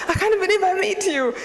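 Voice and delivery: giddy fan voice breaking into laughter; excited squeal. Retold or imitated. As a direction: squeal like meeting your idol. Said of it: "I'm screaming".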